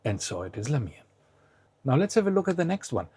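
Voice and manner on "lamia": "Lamia" stressed on the I. Shown as a demonstration. Teacher confirming the city's name, stress on the I of "Lamia". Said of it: "has the stress on the I".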